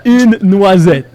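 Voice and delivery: slow, clear model; over enunciating. Shown as a demonstration. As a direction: draw out noisette carefully. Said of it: "That was good".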